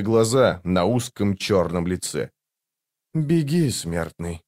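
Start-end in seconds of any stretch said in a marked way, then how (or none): 3.1-4.4 white-haired stranger. A narrator's reading. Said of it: "произнёс беловолосый незнакомец". (негромкий голос таинственного незнакомца)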